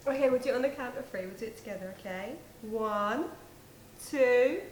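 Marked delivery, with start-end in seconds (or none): 2.6-4.6 building countdown. Acted. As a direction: count up louder on each number. Counting down to hang up.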